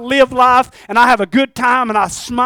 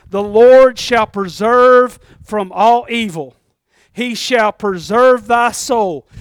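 slow scripture reading; slower than usual. Real, not acted. Reading scripture verse aloud.

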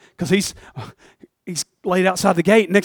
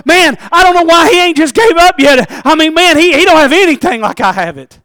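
puzzled rich man; 9 semitones higher, 10 dB louder than usual. Acted. Rich man wondering about Lazarus.

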